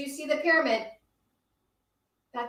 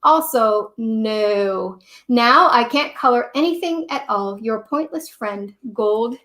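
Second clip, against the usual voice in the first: a fed-up Gold Crayon, read out loud and a little louder; grumpy crayon letter; 7 dB louder than usual. Acted. Storyteller reads Gold Crayon's grumpy postcard to Duncan, louder. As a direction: complain like a sulky crayon writing home.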